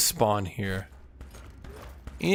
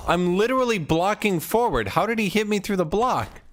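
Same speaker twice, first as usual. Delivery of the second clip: raging gamer; 8 semitones higher than usual. Real, not acted. Frustrated at unfair hit.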